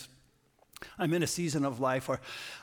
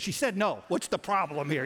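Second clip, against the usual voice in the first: put-on loud, indignant outburst at a stranger's kid; mock-scold the boy, louder and higher; hammed-up bystander telling a child off; over the top; 4 semitones higher, 5 dB louder than usual. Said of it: "I'm just going way over the top".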